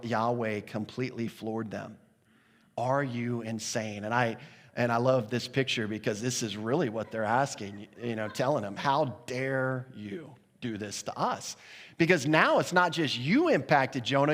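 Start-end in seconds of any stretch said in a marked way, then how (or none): 2.8-4.0 slow, deliberate questioning; understated, slow incredulity; appalled disbelief. Acted. Voicing the appalled sailors. 8.8-11.6 slow, weighty reproach; understated, deliberate outrage; indignant. Acted. Voicing the indignant sailors.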